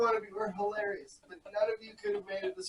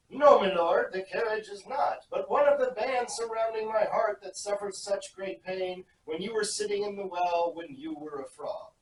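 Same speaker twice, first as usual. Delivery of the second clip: put-on British servant accent. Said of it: "that was a decent accent".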